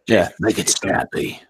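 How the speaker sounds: tough Cockney movie hardman; Cockney accent. Acted. Ordering at McDonald's, thick Cockney accent. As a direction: order like a Cockney action hero. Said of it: "that's the transporter right there".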